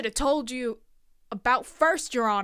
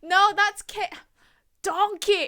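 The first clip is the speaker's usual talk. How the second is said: Donkey voice; 7 semitones higher, 5 dB louder than usual. Acted. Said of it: "I can't do it".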